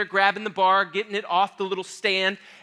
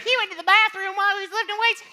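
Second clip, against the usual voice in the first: mock teasing; 10 semitones higher, faster than usual. Mocking the lifters in high voice.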